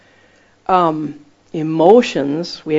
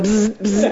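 imitated buzzing; 4 semitones higher than usual. Imitating jellyfish buzz.

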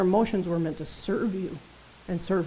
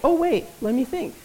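higher, louder sarcastic musing; mock pondering; 5 semitones higher, 4 dB louder than usual. Preacher to church on healed or crabby, sarcastic pondering. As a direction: pretend the answer is hard.

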